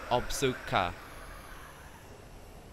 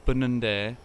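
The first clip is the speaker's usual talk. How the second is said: staccato; 4 dB quieter than usual. Shown as a demonstration. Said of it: "We have to say one word at a time".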